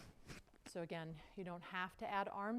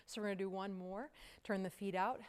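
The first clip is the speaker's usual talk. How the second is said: ordinary delivery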